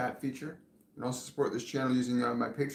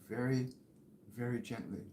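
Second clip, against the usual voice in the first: whispering; 8 dB quieter than usual. Retold or imitated. Psychic echoes archangel's whisper to the viewer, very softly. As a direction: whisper it right into their ear. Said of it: "Like he's whispering in your ear".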